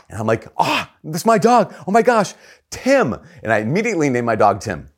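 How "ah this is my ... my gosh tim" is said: very high, gushing delight; acted-out thrilled discovery, louder and high; overjoyed kid. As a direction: squeal it like a child getting a puppy. Child discovers his gift dog.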